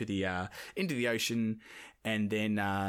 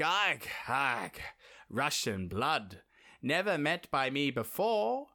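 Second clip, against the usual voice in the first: witch Baba Yaga; 5 semitones higher, slower than usual. Acted. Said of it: "and she's like".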